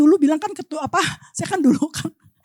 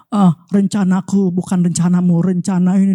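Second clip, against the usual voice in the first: lower, calm voice of God correcting; 7 semitones lower than usual. Retold or imitated. Preacher voicing God answering through Scripture, lower and calm. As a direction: speak as God, gently setting them straight. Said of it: "Tuhan akan ngomong".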